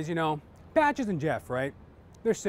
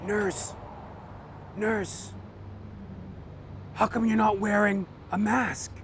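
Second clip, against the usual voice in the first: patient; 2 semitones higher, slower than usual. Acted. Patient voiced in joke.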